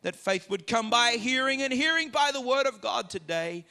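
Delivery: earnest public prayer, building from low to firm, then settling; congregational prayer. Real, not acted. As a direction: lead the congregation in prayer, easing down to a low amen.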